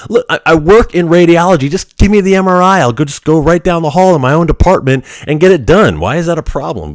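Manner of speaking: exasperated insistence. Retold or imitated. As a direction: demand it like you've asked too often.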